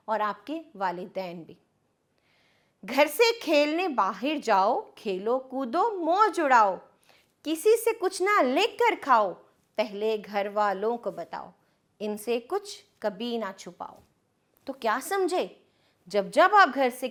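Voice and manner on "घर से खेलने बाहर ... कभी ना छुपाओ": put-on sing-song reading of a children's rhyme; lilting nursery-poem delivery; poem recitation. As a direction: recite it rhythmically for small kids.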